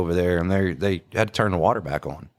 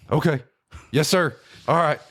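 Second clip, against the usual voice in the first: much higher, meek yes-sir voice; meek Mike; 7 semitones higher than usual. Retold or imitated. Mike answering the speaker's scolding, high meek voice. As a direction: cower and agree quickly.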